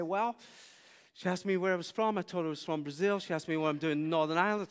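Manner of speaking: loud, rushed retelling; rapid-fire recap. Retold or imitated. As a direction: rattle off the whole story at speed. Breathless recap to the baffled colleague.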